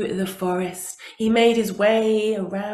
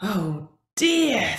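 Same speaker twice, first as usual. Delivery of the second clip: sighing; 3 semitones lower than usual. Acted. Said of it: "sighed Tiger".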